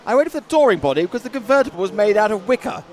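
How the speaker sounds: put-on old-timey 1930s toff; hammy vintage motoring gent; 1930s cartoon voice. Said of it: "Can you not do the nineteen thirties voice then?".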